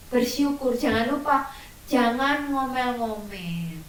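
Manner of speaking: usual speaking voice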